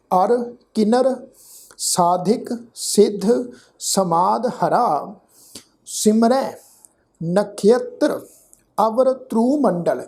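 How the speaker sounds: slow, measured recitation with pauses between phrases; scripture recitation. Shown as a demonstration. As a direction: recite each word deliberately, vowels drawn out. (ਠਹਿਰ ਠਹਿਰ ਕੇ ਗੁਰਬਾਣੀ ਪਾਠ)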